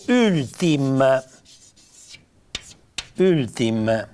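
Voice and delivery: ultim detto alla piemontese; di' ultim alla piemontese; pronuncia piemontese. Shown as a demonstration. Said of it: "se mi scrivo". (ultim in piemontese)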